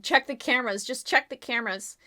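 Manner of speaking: panicked yell. Acted. Lord Snow yelling at Wood, panicked and loud. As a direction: push Wood to check the footage now. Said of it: "panicked and yelled at Wood".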